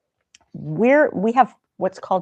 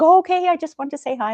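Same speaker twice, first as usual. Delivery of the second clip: mock the boss backing off innocently; deflated coworker; 11 semitones higher, 5 dB louder than usual. CFO's deflated reply voiced.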